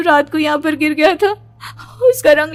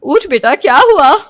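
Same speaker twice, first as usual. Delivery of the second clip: urgent, higher concerned call; worried mother; 4 semitones higher, 3 dB louder than usual. Acted. Mother waking scared daughter, anxious and urgent. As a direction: shake her awake with worry.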